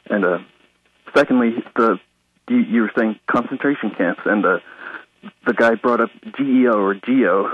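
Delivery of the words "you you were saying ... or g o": nervous, short of breath; catching breath between phrases. Real, not acted. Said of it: "hold on, I gotta catch my breath".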